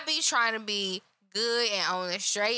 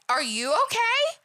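high, louder mocking whine; 13 semitones higher, 4 dB louder than usual. Coworker parroting the worried boss, high and mocking. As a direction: parrot the boss's worry in a high voice. Imitating boss asking again.

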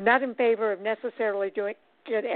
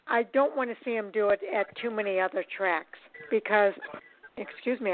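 speaking through hiccups; words broken by hiccups. Real, not acted. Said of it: "I got the hiccups all of a sudden".

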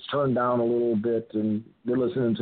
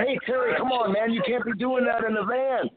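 retold protest; 10 semitones higher than usual. Acting out his own protest.

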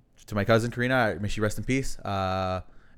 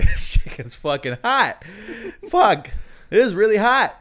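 loud, higher yelp about the spicy chicken; half-laughing complaint, mouth on fire; retold yell; 10 semitones higher, 5 dB louder, slower than usual. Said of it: "I'm like".

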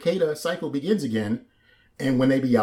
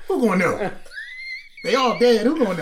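pitched up high and a little louder, gleefully getting away with it; high mock cicada voice; 10 semitones higher, 3 dB louder than usual. Cohost voicing a cicada that got away with it, high sly mock voice. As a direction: play a sly bug sure nobody will tell.

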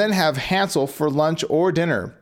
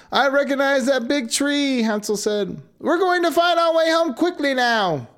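joyful; 7 semitones higher than usual. Acted. Siblings dancing for joy.

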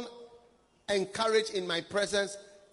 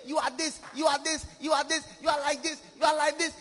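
nagging accusations that build to a shout; a hint of a fault-finding accuser, louder and louder; mimicking the accuser; 3 semitones higher, 4 dB louder, faster than usual. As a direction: rattle off the charges, getting louder. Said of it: "which accuse us every day".

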